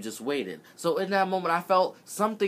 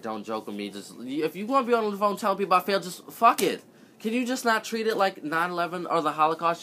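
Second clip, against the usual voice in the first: exasperated plea; 4 semitones higher than usual. Retold or imitated. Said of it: "just like".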